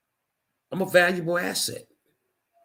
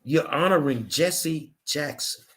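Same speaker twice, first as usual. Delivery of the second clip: real slow; slower than usual. Real, not acted. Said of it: "I'm gonna say it real slow for you".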